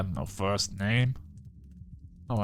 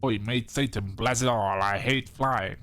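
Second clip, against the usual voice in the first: attempted British accent, slightly put on. Shown as a demonstration. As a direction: have a go at a British "Oi, mate" voice. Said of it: "do a British accent like".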